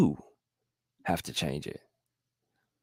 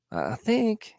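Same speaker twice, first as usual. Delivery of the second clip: much higher, halting I, I think; doubtful I think; 13 semitones higher than usual. Shown as a demonstration. A vlogger acting out the hesitant thinker, pitch leaping. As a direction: stammer up into think unsure. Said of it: "It's like".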